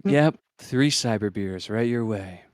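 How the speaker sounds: slow, gruff barkeep; a lightly voiced tough bartender.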